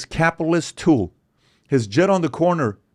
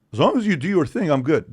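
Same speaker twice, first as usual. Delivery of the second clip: mocking libertarian; 4 semitones higher than usual. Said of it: "it's called".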